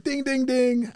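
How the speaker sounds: high chiming ding; mock bell. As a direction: ring it out like a game-show bell. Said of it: "the light bulb doesn't always go off".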